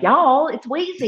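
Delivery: high-pitched Nashville "y'all" greeting; hammed-up Nashville accent, high and sociable. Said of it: "I go home in my accent".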